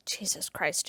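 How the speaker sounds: aghast under-the-breath whisper; shocked whisper. Real, not acted. Vlogger appalled by the character's thought, whispered. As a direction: mutter it in disbelief.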